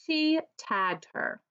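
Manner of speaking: "She" lifted and stressed, rest slow. Shown as a demonstration. Teacher stressing "She" for the class. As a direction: point at the pronoun "She". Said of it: "Who does she refer to?".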